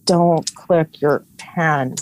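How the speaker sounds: very slow mock order; drawn-out scolding. Friend acting out her rule about pens, drawn-out scolding. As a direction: stretch every word of the reprimand.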